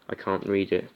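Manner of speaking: normal talking voice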